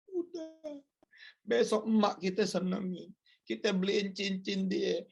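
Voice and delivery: a hint of a loving wife soothing her husband; tender wife. Wife comforting her husband, lightly voiced tender coaxing. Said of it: "Anda peluk suami".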